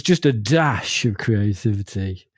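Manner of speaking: "dash" drawn out and emphasised; stress on dash. Retold or imitated. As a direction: lean slowly on the word "dash". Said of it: "I like the emphasis on the word dash".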